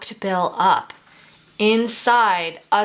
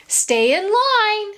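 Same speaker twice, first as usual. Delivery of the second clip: high, carrying call to the class; teacher keeping the children in line; 13 semitones higher, 4 dB louder, slower than usual. Acted. Teacher calls the class to stay in line, high and carrying.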